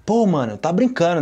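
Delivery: playing astonished at serious news; acted disbelief. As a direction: react as if you can't believe it. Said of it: "coisa que eu não acredito".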